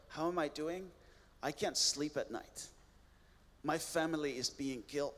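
understated, subdued retelling of despair; broken. Retold or imitated. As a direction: voice a broken man's answer, quietly restrained. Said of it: "a broken look in his, his, his face".

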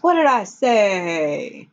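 lightly crowing, drawn-out boast; imitated triumph. Father on raft as the sail works, mildly crowing. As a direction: stretch it out with a touch of triumph.

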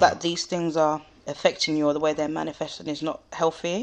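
talking through hiccups; hiccupping between words. Real, not acted. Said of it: "Excuse me, I've got hiccups".

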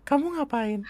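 high campy drag queen. Shown as a demonstration. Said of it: "Kayak bencong Taman Lawang".

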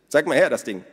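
hohe, laute Stimme einer lebhaften Frau; Minnas Stimme. A narrator's reading. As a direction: Minna ruft die Gäste fröhlich zum Essen. Narrator voices Minna. (hohe, laute Frauenstimme)

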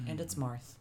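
news reporter voice. Pretend. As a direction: read it like a lightly mocked newscaster. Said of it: "I like your news reporter voice".

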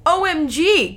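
loud, high OMG outburst; over-the-top shocked exclamation; excited cry. A narrator's reading. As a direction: cry it out, hammed up. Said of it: "cried Brian".

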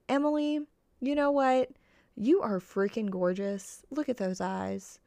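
hyped-up pep talk to yourself; hype girl. Retold or imitated. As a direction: cheer yourself on like a best friend. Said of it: "be your hype girl".

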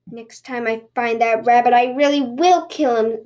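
understated angry grumble; grumbling threat. Acted. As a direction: grumble a threat with a touch of anger. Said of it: "the tanuki grumbled".

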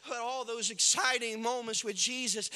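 from plain up to a loud, high shout; rising preaching shout; building sermon climax. Acted. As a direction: build to the climax, slowing at the end.

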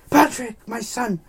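high, loud melodramatic wail; hammed-up anguished dad; distraught father. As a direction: cry out as a horrified father, drawing it out. Father bursts into hospital room.

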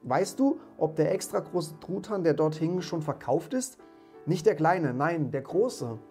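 high, loud keen inquiry; eager question. A narrator's reading. Scrooge asks the boy about the prize turkey, excited. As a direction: ask with bubbling impatience.

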